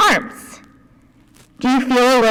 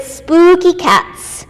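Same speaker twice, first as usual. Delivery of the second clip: spooky drawn out; 4 semitones higher, 4 dB louder, much slower than usual. Shown as a demonstration. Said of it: "find your meow".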